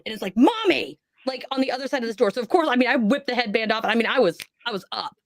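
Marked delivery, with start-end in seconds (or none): 0.4-1.0 put-on high, panicky call of a lost little kid; scared child's cry. Unseen child calling mom through the bedroom door, higher and frightened. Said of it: "So it busts out that tone".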